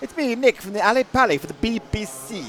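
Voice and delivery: vintage wireless presenter; 1930s cartoon voice. Old BBC announcer bit.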